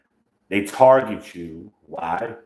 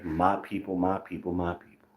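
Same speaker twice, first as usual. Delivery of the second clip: sarcastic disgust; 8 dB quieter than usual. Retold or imitated. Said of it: "He would say that sarcastically and, with a sense of disgust".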